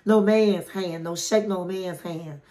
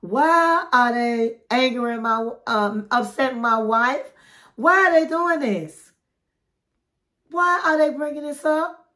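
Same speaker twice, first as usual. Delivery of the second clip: retold annoyed husband, rising higher as he goes; pissed; 3 semitones higher than usual. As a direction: act out an indignant protest, mildly heated. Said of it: "he was looking pissed".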